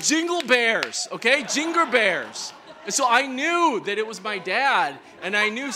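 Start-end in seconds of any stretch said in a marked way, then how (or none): 0.1-1.1 put-on Korean accent. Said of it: "only he sings". 1.4-2.5 put-on slow Korean-accented jingle. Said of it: "only he sings".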